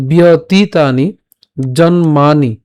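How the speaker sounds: "বিয়তিতানি" slow, long "tee"; "জন্মানি" split as jon-maa-ni with long "maa"; drawn-out long vowels. Shown as a demonstration. Teacher models the words, slow held vowels in "বিয়তিতানি, জন্মানি". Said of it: "একটু সময় দিয়ে উচ্চারণ করলাম".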